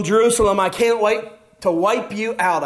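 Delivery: a gleeful hint of revenge; gloating. Shown as a demonstration. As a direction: say it like you can't wait to see it fall. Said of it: "But don't misunderstand the message".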